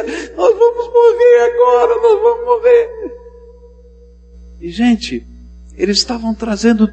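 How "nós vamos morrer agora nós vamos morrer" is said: very high, loud, crying wail; panicked wail. Acted. Parents holding their babies, wailing in terror. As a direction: cry out as if doom is certain.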